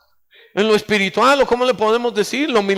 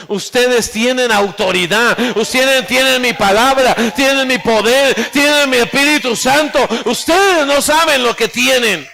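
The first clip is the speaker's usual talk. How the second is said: emphatic preaching; 2 semitones higher than usual. Real, not acted.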